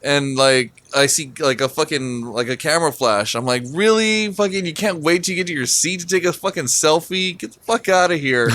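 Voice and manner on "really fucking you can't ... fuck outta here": higher-pitched mock griping; re-enacted irritated complaint; retold exasperation. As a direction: gripe incredulously, without shouting. Retells griping at a stalled line.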